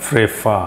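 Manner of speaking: ফ্রেফা said slowly, weight on the final ফা; second-syllable stress. Shown as a demonstration. Teacher showing learners the stressed syllable, stress on ফা in ফ্রেফা. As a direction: lean on the ফা at the end of ফ্রেফা. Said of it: "জোর দিয়ে উচ্চারণ করা হচ্ছে".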